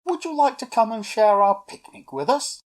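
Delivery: high, carrying question; calling up. A narrator's reading. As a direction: call up to someone in the treetops. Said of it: "Eric called up".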